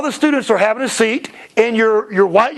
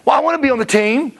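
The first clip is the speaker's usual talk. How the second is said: put-on higher, pleading child voice; mock-tearful kid in the lobby; whiny crying kid; 5 semitones higher than usual. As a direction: imitate a kid begging mom. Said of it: "I've had kids crying in the lobby going".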